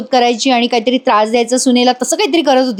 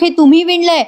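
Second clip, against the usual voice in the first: astonished; 6 semitones higher than usual. Retold or imitated. Wife stunned by knitted socks.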